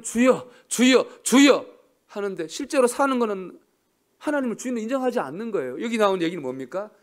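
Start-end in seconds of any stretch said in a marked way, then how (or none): 0.0-1.7 loud, high, slow "주여, 주여"; drawn-out loud mock 주여 wail; mock crying out. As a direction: ham up the empty prayer cry. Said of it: "입만 열면".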